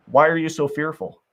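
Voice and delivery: gently imitated patient questioning; patient, loving, gentle. Jesus to frightened disciples in the storm, very gently. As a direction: ask it lovingly and patiently, with unhurried pauses. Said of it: "very patiently, very lovingly, very gently".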